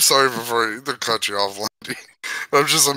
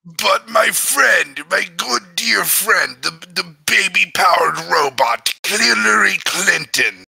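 Watto; 2 semitones higher than usual. Acted. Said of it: "the Watto voice is very fun to do".

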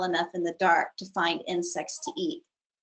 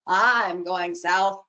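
snorting caribou; 3 semitones lower, 3 dB louder, much slower than usual. Acted. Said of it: "the caribou snorted loudly".

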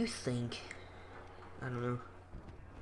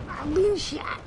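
much higher, louder squeal; squeaky yelp; 7 dB louder, slower than usual. Pretend. Gamer telling viewers he's being shot, in a high squeal. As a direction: squeal it like a cartoon victim. Getting hit in game.

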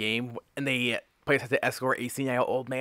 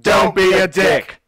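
much louder, slow and emphatic; 6 semitones higher, 11 dB louder, slower than usual. Acted. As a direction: bark it out as a firm rule. Stating the podcast player tip.

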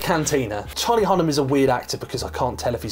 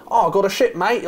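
put-on muddled Irish-turned-Australian accent, raised and playful; mock Australian-Irish accent; 5 semitones higher than usual. Podcaster imitating actor's botched accent, mock Australian-Irish accent. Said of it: "in his weird, I don't know, it's Australian".

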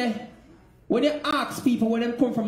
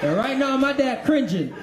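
put-on American accent; Yankee accent. Comic teasing about dad cringing at the accent, mock Yankee accent. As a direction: keep up the mock Yankee talk. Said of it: "the moment you start talking like this".

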